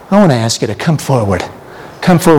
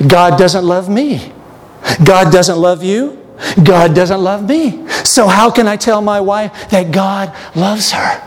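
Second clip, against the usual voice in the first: voicing Arthur Miller; 6 semitones higher than usual. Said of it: "he probably felt".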